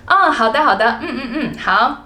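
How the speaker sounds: 轻松随意地道别; casual goodbye chat. Shown as a demonstration. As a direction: play both friends signing off lightly. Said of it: "We usually end our conversations like".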